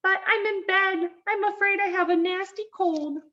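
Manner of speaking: high, scratchy fake grandmother. A narrator's reading. Wolf posing as Grandmother in bed, scratchy voice. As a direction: put on a high, scratchy old-lady voice. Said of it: "a scratchy voice from the bedroom".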